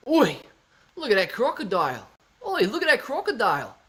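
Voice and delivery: high put-on accent, calling out; Lauren. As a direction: call it in a high mock-accent voice. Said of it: "that's exactly how Lauren sounds".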